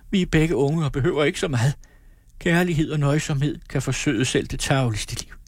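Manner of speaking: put-on a girl crying out her hopes to her parents. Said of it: "råbte Amalie". (en ung pige der råber bønfaldende, højt og lyst)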